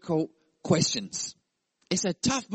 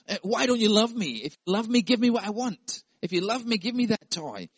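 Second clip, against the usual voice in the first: higher whining plea; pleading child; 6 semitones higher than usual. Pretend. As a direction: beg like a sulking boy. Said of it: "We could put words in his mouth".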